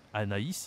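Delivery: Anaïs with the i sounded separately; tréma ï. Shown as a demonstration. Teacher points at the tréma word, separate i in Anaïs. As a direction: keep a and i apart in Anaïs. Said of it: "on doit prononcer la lettre U".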